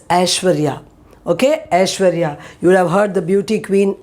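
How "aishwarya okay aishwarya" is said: Aishwarya starting with a short a as in cat; correct pronunciation. Shown as a demonstration. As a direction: say Aishwarya, not eye-shwarya.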